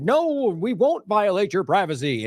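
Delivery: slow, drawn-out mock assurance; imitating an insincere pledge, stretched slowly; mock promise. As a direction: parrot a hollow company promise, drawn out. Mimics companies' hollow privacy promises.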